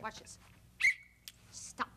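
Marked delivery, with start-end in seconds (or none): 1.5-1.9 soft, timid attempt at a command; half-hearted, quiet little order; feeble stop. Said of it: "not, not quite".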